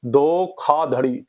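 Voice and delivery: धोखाधड़ी drawn out slowly with aspirated kh; correct pronunciation. Shown as a demonstration. Teacher repeating the correct word, slow धोखाधड़ी with aspirated kh. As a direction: say धोखाधड़ी slowly as dho-khaa-dhadi. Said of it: "धोखा होता है".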